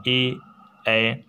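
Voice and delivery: ए voiced with tongue forward; a clean sustained ए; front vowel e. Shown as a demonstration. Teacher showing the front vowel ए. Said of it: "सामने की तरफ थोड़ा सा निकल रहा है".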